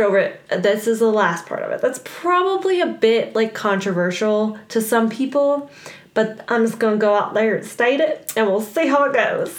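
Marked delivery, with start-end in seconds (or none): 6.1-9.6 put-on country accent; light country twang, for fun. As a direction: slip into a playful country accent. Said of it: "Why are we doing country accent?".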